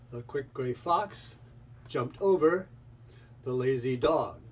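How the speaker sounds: FOX, OVER and DOG hit hard, with pauses between; strong rhythmic stress. Shown as a demonstration. Teacher showing how to add stress, "fox", "over", "dog" strongly stressed. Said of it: "So strong stress on that rhythm up there".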